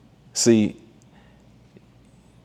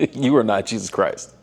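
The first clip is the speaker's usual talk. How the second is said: laughing through the repeated quote; real chuckle while saying it; 5 semitones higher than usual. Real, not acted.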